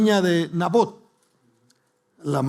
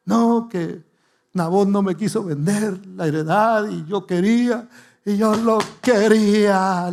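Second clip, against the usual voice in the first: higher, whiny spoiled-king voice, dragged out at the end; sulky tantrum; 4 semitones higher than usual. Retold or imitated. Ahab whining to his wife Jezabel over the land, sulky whine. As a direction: pout like a spoiled child denied a toy. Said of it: "Hizo su berrinche".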